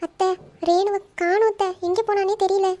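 slow, tearful lament for someone missing; crying as you plead; tearful wail. Acted. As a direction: draw the words out, weeping. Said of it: "ஏன் இப்படி அழுவுறீங்க".

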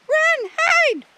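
very high, loud shriek of alarm; panicked yell. A narrator's reading. Wanda warning the animals of a predator, yelling. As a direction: scream the warning out. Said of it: "Wanda yelled".

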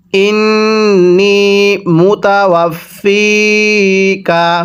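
slow, drawn-out melodic chant; Quran recitation. Shown as a demonstration. Teacher chanting the verse for students, slow melodic recitation. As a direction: stretch each vowel in a slow recitation tune.

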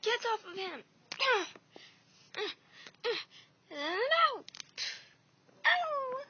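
loud, high yells in a fight; yelling while fighting off the villain; shouting. Acted. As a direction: shout to pull her off. Fight, shouted commands and pain.

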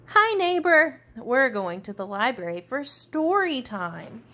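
bright, high and loud on the greeting, then settling; a cheerful kid calling hi to his neighbor; excited little tiger. Acted. Daniel greets the reader.

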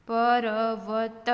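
every letter given its vowel; sounded out. Shown as a demonstration. Teacher breaking a word down, sounded out. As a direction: draw પર્વત out as pa-ra-va-ta.

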